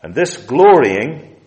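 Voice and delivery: preacher underlines glorying; stress on glorying. Shown as a demonstration. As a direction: lift and hold glorying. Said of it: "I'm emphasizing the very words".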